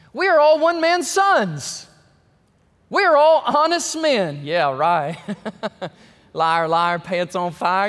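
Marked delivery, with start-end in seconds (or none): 0.1-4.4 louder, higher, slow, pleading protest. Acted. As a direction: insist on innocence, slow and loud. Brothers plead before Joseph.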